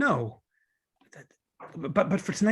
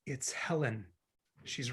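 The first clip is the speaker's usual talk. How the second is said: hushed; 3 semitones lower, 13 dB quieter than usual. Acted. Ex approaching, warning Sally.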